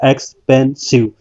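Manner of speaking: एक्सपेंसिव drawn out slowly, syllable by syllable; slow syllable count. Shown as a demonstration. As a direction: stretch एक्सपेंसिव so all three sounds show. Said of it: "इसमें तीन sound आई है".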